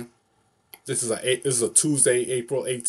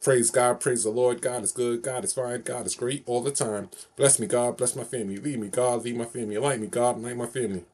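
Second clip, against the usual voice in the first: rhythmic call-and-response prayer recital; steady sing-song praise chant; recited prayer phrase. Shown as a demonstration. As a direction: chant it like a blessing you know by heart. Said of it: "One more time, my favorite phrase of saying".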